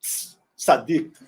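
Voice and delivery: tss, sadik, with a hissed ts; tss sound. Shown as a demonstration. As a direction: hiss the tss of sadik slowly. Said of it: "tem som de tss".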